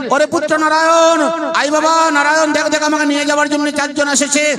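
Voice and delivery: frightened calling. Acted. Dying Ajamil calls his son as messengers come, acted fright. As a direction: call out to your son in storyteller's alarm. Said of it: "ভয়প্রাপ্ত হলেন।".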